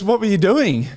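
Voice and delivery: high-pitched incredulous demand; retold disbelief. Team doctor asking player what happened, mock-incredulous. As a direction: imitate an astonished doctor, voice up high.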